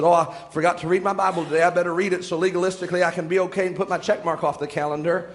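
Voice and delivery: low, fast mock self-talk; hurried, low-pitched imitation of a rote believer; dutiful box-ticker. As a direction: rattle it off as a chore. Mimics a dutiful box-ticking Bible reader.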